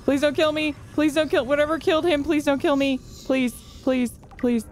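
high, pleading begging; scared pleading. Real, not acted. Diver begging the unseen killer creature, high and scared. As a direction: beg the monster for your life.

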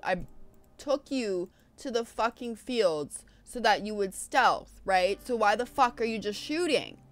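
getting properly annoyed and loud; fed-up gamer griping. Real, not acted. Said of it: "now I'm getting annoyed".

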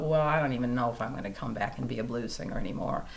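mild despair after surgery; recalling her low point, a touch of gloom; dejected thought. Retold or imitated. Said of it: "And I thought".

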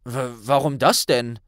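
stammering baffled question; a startled boy asking why; puzzled. Acted. Ron asks Hermine, stammering in surprise. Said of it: "fragte Ron verblüfft".

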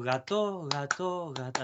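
"gato" with "ga" drawn out a little, "to" short; stretch the first syllable. Shown as a demonstration. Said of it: "la primera tenés que tirarlo un poquito".

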